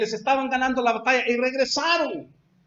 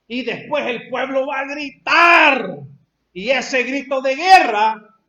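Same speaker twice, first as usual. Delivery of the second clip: rising war cry; 5 dB louder, slower than usual. Acted.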